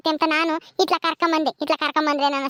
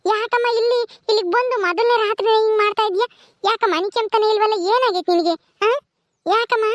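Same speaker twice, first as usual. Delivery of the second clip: higher-pitched, mildly exasperated pleading; exasperated mother; 3 semitones higher than usual. Acted. Mother asks baby why she won't sleep, exasperated.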